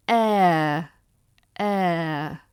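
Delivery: "air" drawn out as a gliding vowel; diphthong demo. Shown as a demonstration. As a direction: say "air" slowly, letting the vowel glide. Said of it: "is that diphthong sound again".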